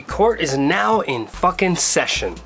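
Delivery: town crier proclamation; mock royal decree. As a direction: announce it like a court crier. Mock court crier opening.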